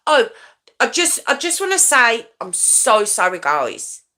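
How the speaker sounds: hurried, gabbling apology; rushed. Retold or imitated. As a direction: rush the words out. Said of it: "in a very rushed, quick way".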